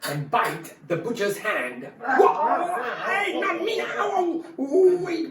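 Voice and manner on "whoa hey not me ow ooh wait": high yelps of a bitten butcher, through laughter; laughing, much higher mock cries of pain; startled butcher yelping. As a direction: squeal like your hand just got bitten.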